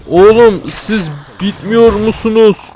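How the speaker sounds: slow, high, loud exasperated whine. Real, not acted. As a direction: drag it out, fed up. Exasperated at endless enemies.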